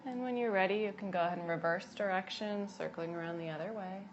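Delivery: unhurried cues with long pauses between; gentle yoga guidance. Acted. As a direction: lead them calmly through each breath and movement. Guides breathing and gentle movement.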